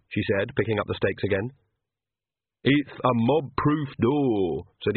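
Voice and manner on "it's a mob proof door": Igor voice. Acted. Igor speaking.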